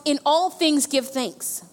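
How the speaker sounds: slow, even dictation pace for notes. Shown as a demonstration. Pastor dictating the verse to the congregation, slow and even. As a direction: spell it out slowly for the notes. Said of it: "write in your notes".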